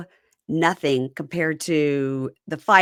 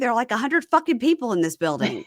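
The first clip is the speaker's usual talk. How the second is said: higher-pitched retold complaint; annoyed; 6 semitones higher, faster than usual. Inmate objecting to officers focused on her, retold as annoyed. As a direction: imitate an inmate protesting at being singled out. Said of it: "And she gets annoyed".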